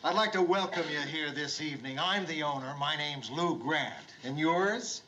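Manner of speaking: polished, rehearsed welcome speech; rehearsed host greeting. Acted. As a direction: recite the owner's welcome a little fast. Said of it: "I'm gonna see to it".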